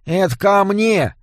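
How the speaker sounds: high, slow goblin shout-out; quick goblin call. A narrator's reading. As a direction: toss it off brightly. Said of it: "бросил гоблин".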